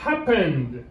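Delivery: "Happened" stressed on "Hap", falling away; teacher's demo of "Happened", weight up front; stress on first syllable. Shown as a demonstration. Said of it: "L'accent est sur le premier".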